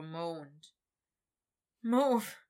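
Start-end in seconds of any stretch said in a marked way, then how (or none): 1.8-2.4 rough plea. Acted. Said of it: "he managed roughly".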